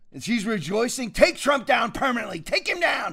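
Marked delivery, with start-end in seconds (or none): 1.1-3.1 mock Michelle Obama. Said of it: "That's how she talks".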